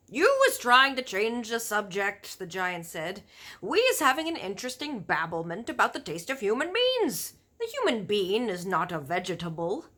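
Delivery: big friendly giant warning about cannibal giants; BFG giant voice. Acted. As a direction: boom out the giant's grim warning. Giant's voice in story.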